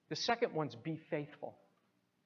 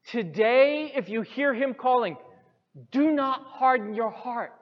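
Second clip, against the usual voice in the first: "Today" pushed high and loud, rest kept raised; emphasis on Today; 7 semitones higher, 10 dB louder than usual. Shown as a demonstration. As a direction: preach it, hitting "Today". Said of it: "hear the emphasis".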